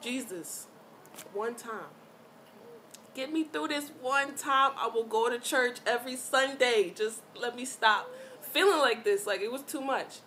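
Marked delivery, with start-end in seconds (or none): 0.0-9.2 hammed-up pleading prayer, building louder; mock church-lady bargaining with God, emphatic; Madea. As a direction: start restrained, then cry out to Jesus loudly. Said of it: "I really had to hit him with the Medea".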